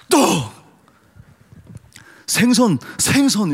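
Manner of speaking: high, loud one-word commands; Jesus's command. Pretend. Pastor playing Jesus producing bread and fish by word, shouted commands. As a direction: shout each food into existence. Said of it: "예수님은 가장 편안하게 어떻게 하면은".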